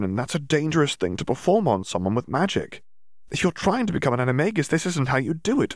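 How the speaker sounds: brisk know-it-all, lightly voiced young witch; lecturing Hermione. Hermione lecturing Dimitri on transfiguration, lightly voiced. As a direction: explain it like the cleverest girl in class.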